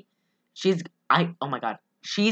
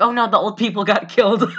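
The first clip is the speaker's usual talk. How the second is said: laughing mock dismay. Laughs while telling her own reaction.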